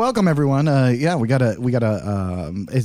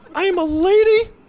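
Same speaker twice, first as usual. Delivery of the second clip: put-on pig puppet voice, higher; 4 dB louder than usual. Answering the frog on a puppet podcast: Miss Piggy voice. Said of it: "Miss Piggy's here".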